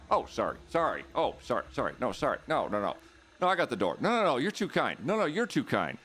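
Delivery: mock-polite apologetic back-and-forth; sing-song over-politeness; overly polite Canadian. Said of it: "That's the Canadian standoff".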